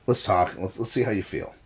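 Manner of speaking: low, soft aside to a son; gentle reassurance, retold. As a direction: quietly invite him to open up. Retold calming talk taken aside.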